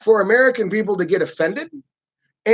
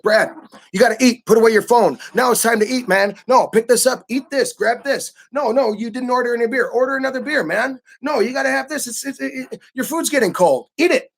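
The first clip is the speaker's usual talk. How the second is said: forceful friend; 4 semitones higher than usual. Retold or imitated. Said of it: "people are gonna be much more forceful".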